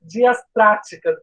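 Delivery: slow, effortful try at diastrática; careful slow syllables. Real, not acted. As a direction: sound out diastrática slowly, syllable by syllable. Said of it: "é muito difícil falar".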